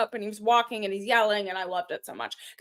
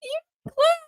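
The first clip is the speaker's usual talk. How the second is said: whiny plea; 12 semitones higher, 3 dB louder than usual. Acted. Teasing plea to co-host.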